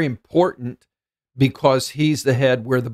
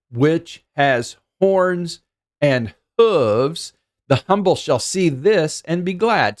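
raised, slowed psalm reading; scripture reading; 3 semitones higher than usual. Acted. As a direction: read the psalm like a song of praise. Reciting the psalm aloud.

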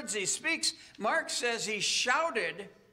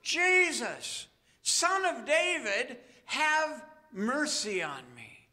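desperate shout; 3 semitones higher, slower than usual. Acted. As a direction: call out to Jesus over the crowd. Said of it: "he shouts at the top of his lungs".

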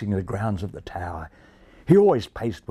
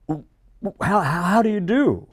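higher, stammering polite bird; polite stammering greeting; 8 semitones higher, 3 dB louder than usual. A narrator's reading. Charlie bowing to Racy, nervous polite stammer. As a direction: stumble politely over the greeting. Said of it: "bowed Charlie politely".

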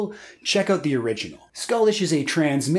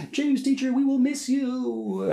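mock child voice, pitched much higher; imitating little kids; 8 semitones higher than usual. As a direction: lightly play a sweet Korean five-year-old saying goodbye. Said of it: "being like".

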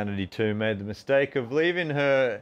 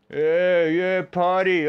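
louder, higher, hammed-up whoop; mock party cheer; 6 semitones higher, 6 dB louder, slower than usual. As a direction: ham up a partygoer's cheer, drawn out. Mocking club-goers' enthusiasm.

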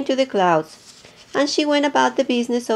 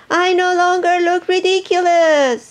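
sweet nightingale voice; 7 semitones higher than usual. Acted. Hippo showing off her new voice to everyone. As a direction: call out proud and sing-song. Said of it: "in her sweet nightingale voice".

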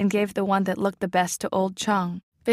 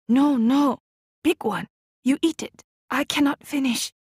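mother insisting; 6 semitones higher than usual. A narrator's reading. Mother refusing the big crab at dinner, high and insistent. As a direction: push the good crab back at her, refusing. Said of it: "but my mother cried".

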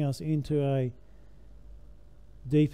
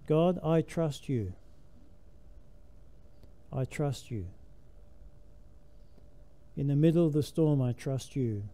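calm trust; 4 dB quieter than usual. Shown as a demonstration. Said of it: "Because you can get up and say".

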